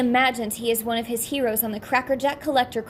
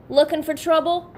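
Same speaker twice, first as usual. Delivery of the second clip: menacing tease; 5 semitones higher, 4 dB louder than usual. Acted.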